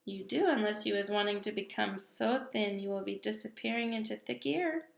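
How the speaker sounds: a hint of a booming giant, firm and sure; lightly voiced big friendly giant. Giant lectures the little girl about giants, lightly voiced.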